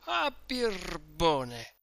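put-on slow, drawn-out drunken outburst; exclaimed. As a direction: stretch out the insult, outraged. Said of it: "esclamò Renzo". (esclamazione lenta e strascicata)

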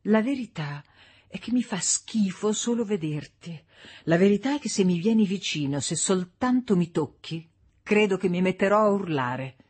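a touch of a wife spitting out the truth; April, cold and disgusted. Acted. Wife warning husband not to touch her, understated disgust. April rejects Frank coldly.

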